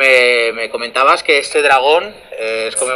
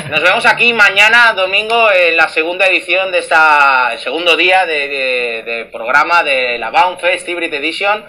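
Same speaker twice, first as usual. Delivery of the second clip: monster truck ad. Acted. Promo for tomorrow's show.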